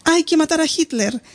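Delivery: mild shout in a storyteller's voice; narrated shout. A narrator's reading. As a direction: read as a restrained outcry. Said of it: "grita a todo pulmón".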